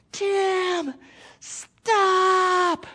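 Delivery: put-on high, loud panicked yell to a running child; desperate scream. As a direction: scream it to stop him at the cliff edge. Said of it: "So he screamed".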